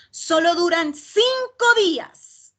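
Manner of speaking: slow, stressed cinco with falling close; emphatic reveal. Shown as a demonstration. Teacher revealing the answer to donors, slow stressed delivery. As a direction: land "cinco" slow and strong. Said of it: "Cuando usted utiliza esas inflexiones".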